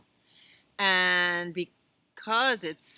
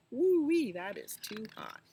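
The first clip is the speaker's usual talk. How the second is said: excited woo-wee; 4 semitones higher than usual. Acted. Teacher reacting to a scorching slide for the children, high and excited. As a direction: yelp it like the slide burned you.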